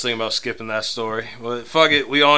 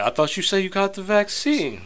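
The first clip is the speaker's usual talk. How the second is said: pitched way up, incredulous; mocking high-pitched doubt; mock disbelief; 8 semitones higher than usual. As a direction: throw it up high like you caught them lying. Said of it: "they're like".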